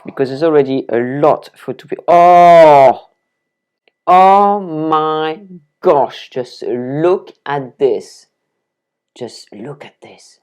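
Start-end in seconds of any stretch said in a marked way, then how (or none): 2.1-8.3 loud "Oh!", then a very slow, drawn-out "oh my gosh"; real delighted awe at the colour; amazed gasp. Real, not acted. Amazed by the beetroot. 9.2-10.4 whispered, slow and hushed in wonder; real whispered admiration; awed whisper. Real, not acted. Hushed awe at beetroot.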